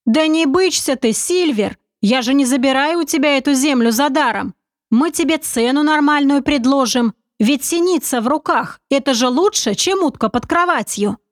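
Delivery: a hint of a sly confident schemer; sly commander. Narrator voices commander Oleg.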